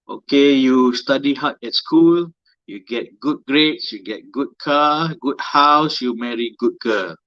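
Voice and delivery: lightly voiced lecturing auntie; a hint of a preachy auntie. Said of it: "That's my auntie voice".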